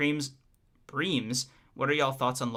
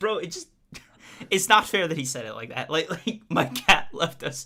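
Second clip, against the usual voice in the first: raised voice, fighting back laughter; 4 semitones higher, 5 dB louder than usual. Asked why he is laughing on stream, answering while trying not to laugh. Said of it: "Why are you trying not to laugh".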